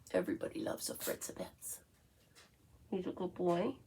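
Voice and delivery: whispered pet talk. Real, not acted. Cooing to her dog.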